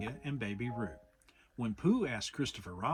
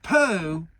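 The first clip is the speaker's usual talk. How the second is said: kindly; 6 semitones higher, 13 dB louder than usual. A narrator's reading. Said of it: "said Rabbit kindly".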